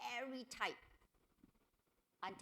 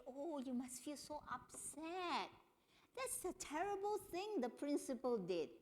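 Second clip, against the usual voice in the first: sympathetic; 6 semitones higher than usual. Shown as a demonstration. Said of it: "if a woman is crying, you can say".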